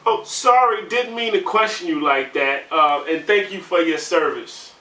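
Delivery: high, flustered mock apology; mock sweet lady; old lady apology. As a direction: mimic a fussy old lady backpedaling.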